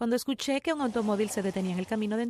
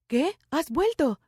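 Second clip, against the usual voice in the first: mild mock shout; 5 semitones higher, much slower than usual. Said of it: "gritó papá".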